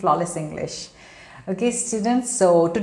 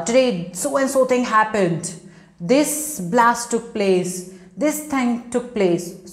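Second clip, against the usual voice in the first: slow, emphatic news report; news reporter speaking out; 3 semitones higher than usual. Acted. Teacher showing how news reporters report, slow and emphatic. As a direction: report it aloud, word by word. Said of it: "don't they shout aloud?".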